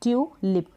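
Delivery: ट्यूलिप in two pieces, ट्यू and लिप; split into syllables. Shown as a demonstration. Teacher repeats for learners, ट्यूलिप in syllables. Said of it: "पहला break किया".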